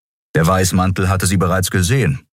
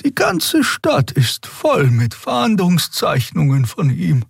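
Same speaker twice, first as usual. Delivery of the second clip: high, slow alien voice; slow high puzzled voice; Xea musing; 12 semitones higher, slower than usual. A narrator's reading. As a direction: keep the lifted Draxül wonder.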